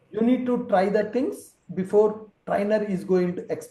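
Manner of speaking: plain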